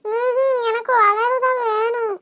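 acted crying. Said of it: "அழுது கேட்டா".

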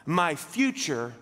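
slow, solemn reading of the psalm; scripture reading. Acted. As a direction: read it slowly and reverently, like a prayer. Reads Psalm sixteen.

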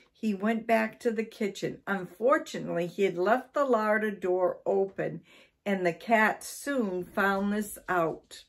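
animated read-aloud storytelling; story narration. A narrator's reading. Storyteller reading about Mister Twiddle and the cat, animated narration. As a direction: tell it clearly with lively stress.

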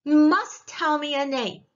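high, loud interrogation; demanding witch. A narrator's reading. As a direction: press hard for an answer.

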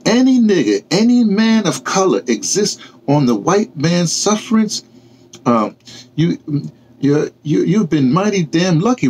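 a touch of stern reproach. Acted. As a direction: drive the hard truth home. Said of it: "Tyler said sternly".

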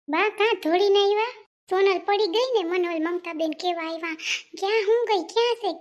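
high, loud and urgent; alarmed shout. Acted. Relative shouts in alarm that Sonal fell, high and loud. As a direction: shout the news across the house.

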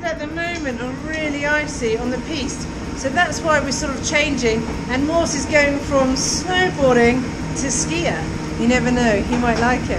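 loud, upbeat calling over noise; cheery ski instructor shouting. Real, not acted. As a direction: call out cheerfully to the group.

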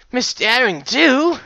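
high, slow astonished gasp; stunned fan gasping her name; gasped surprise. Acted. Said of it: "he gasped".

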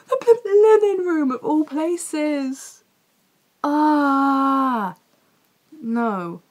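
high, tearful wail of dismay; choked-up fan despair; half crying. Real, not acted. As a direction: let the tears break through as you say it. Upset recapping the sad scene.

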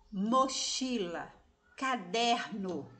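mochila and caderno slowly, syllable by syllable; syllables spelled out. Shown as a demonstration. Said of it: "São palavras de tre". (mochila e caderno devagar, sílaba por sílaba)

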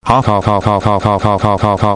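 mechanical, evenly repeated "ha"; mock laugh. Narrator acting out his rampage, mechanical mock laugh. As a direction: stiff looping laugh with no mirth.

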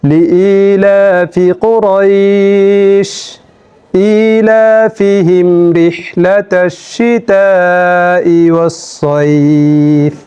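flowing Quran recitation; recited again, joined. Shown as a demonstration. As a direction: recite in longer flowing phrases. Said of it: "আমি আবার বলছি".

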